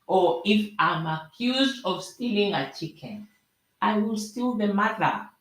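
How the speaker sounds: put-on proverb in a light Nigerian accent. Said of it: "I'm gonna try my Nigerian accent".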